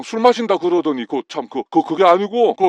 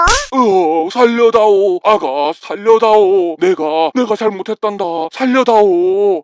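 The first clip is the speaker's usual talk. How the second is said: pleading for mercy. Acted. Father pleading with his daughter-in-law for mercy, drawn-out begging. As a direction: beg her to stop, stretching it out.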